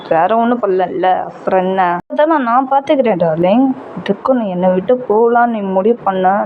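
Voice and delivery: a hint of a controlling lover, coaxing; possessive lover JK. JK voiced by narrator. (லேசாக தாழ்ந்த குரலில் காதலன்)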